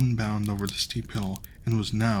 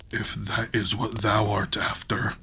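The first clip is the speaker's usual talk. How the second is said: giant voice. Acted. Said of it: "do a voice for the giant".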